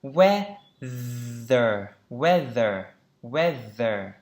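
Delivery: "Weather" stressed on WEA, dropping on ther; WEA-ther, modelled carefully with a falling end; first-syllable stress. Shown as a demonstration. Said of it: "Trọng âm đầu tiên".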